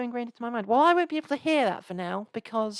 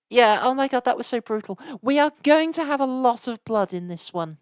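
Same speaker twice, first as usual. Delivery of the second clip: excited; 6 dB louder than usual. Real, not acted. Brutal hit in game.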